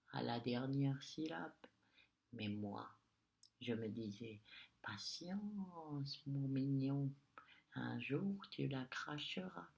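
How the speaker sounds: a lightly voiced witch, mocking; lightly voiced witch sneering. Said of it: "Elle ricane doucement".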